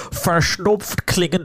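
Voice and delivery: slow, mock stuffed-up voice. Shown as a demonstration. Host describing a sick voice message, sounding congested. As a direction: drag it out as if congested. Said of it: "die muss dann ganz besonders verschnupft klingen".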